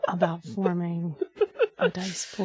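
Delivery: laughing. Pretend. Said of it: "whisper sexily".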